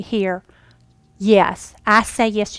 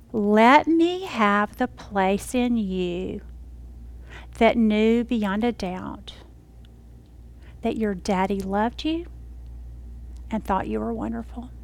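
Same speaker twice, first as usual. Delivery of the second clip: slow, tender voice of the Spirit; the Lord speaking; slower than usual. Retold or imitated. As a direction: gently lead her to the hurt. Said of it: "He said".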